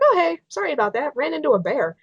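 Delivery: lightly mimicking a breezy caller; mock-chipper, as if nothing happened. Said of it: "you're just all chipper".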